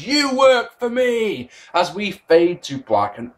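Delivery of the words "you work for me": retold mild yell. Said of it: "Hogan yells".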